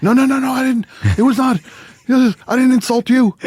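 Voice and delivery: high, pleading mock whine of a rattled player; whiny protest. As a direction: squeak out a panicked denial. Opponents protesting to Jordan.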